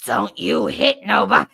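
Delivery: loud mock scolding; nurse's warning. Nurse Pat warning the kid, loud and stern. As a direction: warn the kid like a tough nurse.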